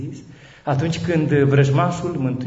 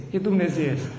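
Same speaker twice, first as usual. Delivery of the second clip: quiet echo; 3 semitones higher, 3 dB quieter than usual. Real, not acted. Repeated quietly after the peak.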